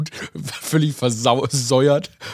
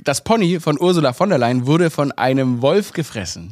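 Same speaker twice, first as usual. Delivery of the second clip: solemn repeat; 2 semitones higher than usual. Pretend. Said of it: "Ich wiederhole".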